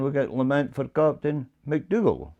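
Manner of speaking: "McDougall" carries the accent at the end; stress on McDougall. Shown as a demonstration. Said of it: "change it to the fourth one".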